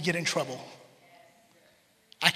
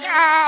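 loud, high mock "ah"; imitated cry of pain; 9 semitones higher, 9 dB louder than usual. Parent showing a small hurt soon kissed better, mock yelp. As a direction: yelp like a hurt child, hammed up.

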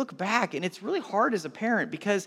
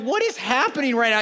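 raised, incredulous retelling; mock bewilderment; 5 semitones higher, 4 dB louder than usual. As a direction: play up baffled disbelief at the chaos. Retold reaction to fights.

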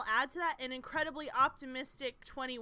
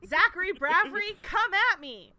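louder, higher New York tough-guy challenge; mock-tough New York accent; 5 semitones higher, 9 dB louder than usual. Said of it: "why I'm doing this accent".

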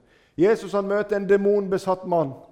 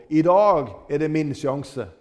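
higher and louder, eager and pressing; urgent hope; 4 semitones higher, 6 dB louder than usual. Retold or imitated. Blind Bartimeus realizing Jesus is near, eager and loud. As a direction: seize the one chance. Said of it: "Han forstår".

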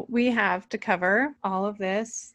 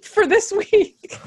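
numb mouth, drawn-out words; numb from the dentist; 11 semitones higher, 4 dB louder, much slower than usual. Real, not acted. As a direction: speak through Novocaine numbness. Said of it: "My face is numb".

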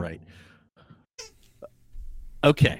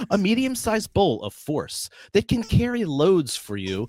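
reading through laughter; 6 semitones higher than usual. Real, not acted. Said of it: "read you the description they made".

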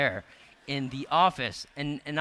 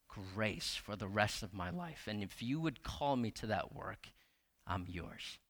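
softly retold prayer; 2 semitones lower, 4 dB quieter than usual. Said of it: "and I said".

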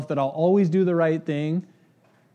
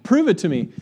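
demanding; 4 semitones higher, 5 dB louder than usual. Retold or imitated. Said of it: "And I'm like".

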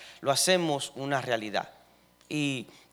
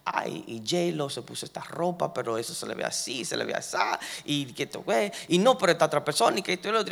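gossiping woman; faster than usual. Retold or imitated. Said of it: "la persona está hablando".

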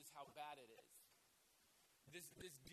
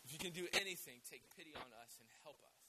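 desperate plea; 4 semitones lower, 8 dB louder, faster than usual. Acted. Father begging Jesus, preacher acting.

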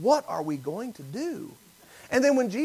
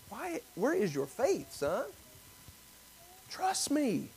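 much softer, gentle inner voice; still small voice; 4 semitones higher, 11 dB quieter, slower than usual. Retold or imitated. God's still small voice to the worried son, soft and gentle. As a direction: speak it softly, like a voice inside. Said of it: "still, small voice in my spirit say".

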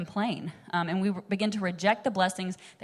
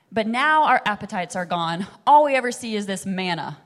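loud grumble; 7 dB louder than usual. Retold or imitated. Israelites grumble about manna.

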